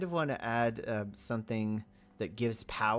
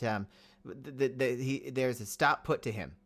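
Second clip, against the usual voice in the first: usual speaking voice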